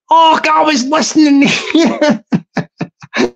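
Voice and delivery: slow teasing imitation of a commenter; mocking commenter. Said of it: "said something like".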